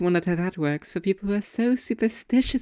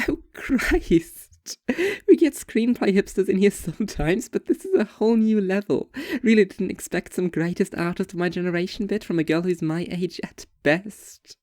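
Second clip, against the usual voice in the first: exasperated waitress. Acted. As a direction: roll your eyes audibly.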